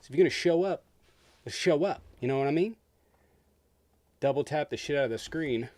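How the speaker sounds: loud hype. Real, not acted. Hyping up viewers to engage.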